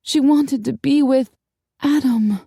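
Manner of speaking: high, impassioned narration; aching, urgent wish; desperate longing. A narrator's reading.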